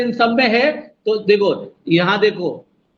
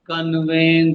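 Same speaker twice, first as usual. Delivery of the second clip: कन्वेन low and unforced; softly unstressed; 3 semitones lower, slower than usual. Shown as a demonstration. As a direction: say कन्वेन easily, no syllable pushed. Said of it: "धीरे बोल गया".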